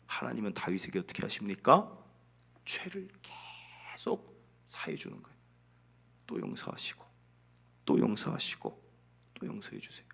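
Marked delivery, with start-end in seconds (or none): 2.6-5.4 very soft, stretched and breathy; hushed wonder. Real, not acted. Preacher marvels at sins forgiven endlessly, hushed wonder. 6.3-10.1 low, soft, near-whispered refrain; hushed repetition. Real, not acted. Preacher dwelling on God forgiving over and over, hushed.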